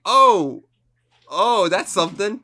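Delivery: high, loud mock amazement; mock awe. To his cohost, a hammed-up awed reaction. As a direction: gasp it out like you're dazzled. Mocking awe at the dramatic moment.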